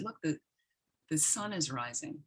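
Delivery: soft, coaxing nudge to look outside; gentle invitation. Retold or imitated. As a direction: softly point her to the sunrise. Gently pointing out the sunrise.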